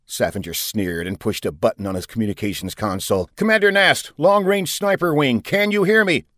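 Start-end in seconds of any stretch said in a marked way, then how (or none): 3.4-6.3 urgent hail. A narrator's reading. Commander hails sniper wing.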